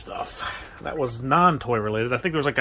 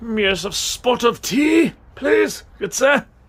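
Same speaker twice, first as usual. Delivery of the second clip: horrible put-on English accent, very high and loud; 11 semitones higher, 6 dB louder than usual. Spotting a little teacup among dishes, joking in a horrible English accent. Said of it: "That was a horrible English accent".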